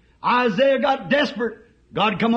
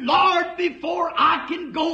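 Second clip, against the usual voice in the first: pleading cry; 5 semitones higher than usual. Acted. Isaiah answering God.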